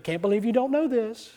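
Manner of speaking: mock disdainful wife, with a laugh; imitating his wife's amused disdain. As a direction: tease him as the wife who knew it all along. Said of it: "Looking at me with that disdain".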